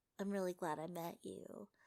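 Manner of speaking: muttered under the breath. Retelling a movie scene where a character speaks: imitating someone under his breath. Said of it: "under his breath".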